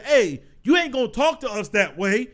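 mock-indignant warning, firmly punched; lightly acted telling-off; retold stern rebuke. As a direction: imitate an umpire laying down the law. Umpire rebukes an arguing coach.

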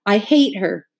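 a touch of sobbing; understated tearful hate; through sobs. Acted. Jess to his father, mildly sobbing. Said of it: "Jess said through his sobs".

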